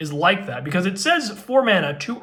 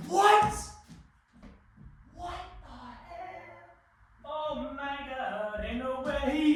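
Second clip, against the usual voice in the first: hushed disbelief; 8 semitones higher, 8 dB quieter, slower than usual. Real, not acted. Reacts to the pull again.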